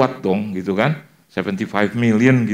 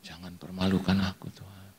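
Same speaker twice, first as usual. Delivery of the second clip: murmured prayer; 3 semitones lower, 11 dB quieter than usual. Retold or imitated. Preacher praying secretly while chatting, low murmured prayer. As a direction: pray under your breath, pleading. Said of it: "sambil yang ngobrol saya doa".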